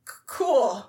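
stammered, uncomfortable "cool"; hesitate, then force out an agreeable word; awkward retold reply.

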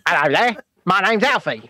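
lightly put-on introduction voice; Alfie. Co-host mimics Alfie saying hello, in a lightly put-on voice. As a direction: introduce yourself in a mild character voice. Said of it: "I end up like Alfie".

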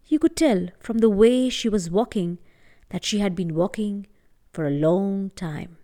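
gentle storytelling voice; story narration. A narrator's reading. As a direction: tell it like a bedtime tale. Storyteller narrating a folk tale.

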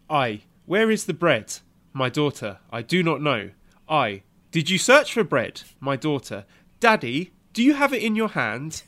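acting out a frantic dad hunting for bread; reading the dad's tweet. Reading a funny tweet to his co-host, loud and excited. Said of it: "Yeah, he says".

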